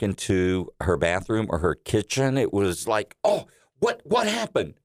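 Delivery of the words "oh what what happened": much higher, startled gasp of a question; shocked as if seeing it first time; mom's surprise. Retold or imitated. Mom surprised by collapsed ceiling.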